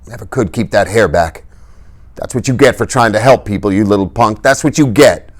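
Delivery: choked, bitter mourning; bitter grief. Acted. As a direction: grieve bitterly. Dally grieving over body.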